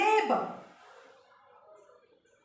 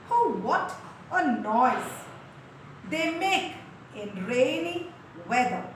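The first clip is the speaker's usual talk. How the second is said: reading the poem aloud to the class, lines lifted; a teacher's careful poem read; poem recitation; 2 semitones higher than usual. Shown as a demonstration. Teacher reciting a poem to her class, clear and measured.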